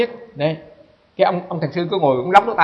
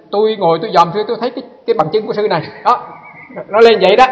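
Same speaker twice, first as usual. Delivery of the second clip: quoted master; 5 semitones higher, 5 dB louder, faster than usual. Retold or imitated. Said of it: "Cái ông nói".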